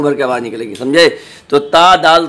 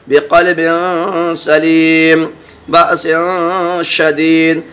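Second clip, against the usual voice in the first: slow, drawn-out tajweed recitation of each example; Quranic recitation; much slower than usual. Acted. Teacher reciting examples to students, slow and measured. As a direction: intone every word with care.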